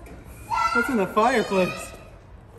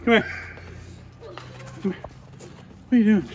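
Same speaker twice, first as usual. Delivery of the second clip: calling out. Real, not acted. Calling child down from climbing.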